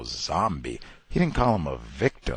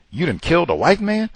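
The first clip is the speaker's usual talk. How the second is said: mock racist accusation; 9 semitones higher, 4 dB louder than usual. Voicing racist mob.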